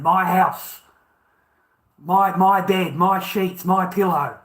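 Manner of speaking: rising outrage over his own bed; furious list of what's his; indignant build. Real, not acted. Outraged listing of his own things.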